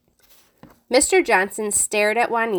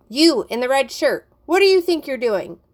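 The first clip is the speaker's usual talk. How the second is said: raised, higher accusing question; teacher confronts the boy in the red shirt, raised scolding; 4 semitones higher, 3 dB louder than usual. Acted. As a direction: catch him in the act.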